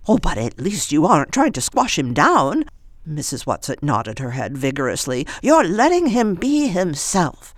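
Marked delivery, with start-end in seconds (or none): 0.1-2.6 put-on old woman voice. 5.4-7.5 high, lightly voiced old woman.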